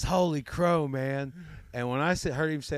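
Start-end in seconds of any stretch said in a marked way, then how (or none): 0.0-1.3 imitating chef. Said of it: "He says".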